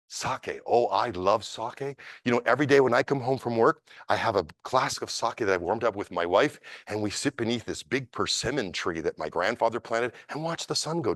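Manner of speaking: lightly voiced kindly old master; gentle old man.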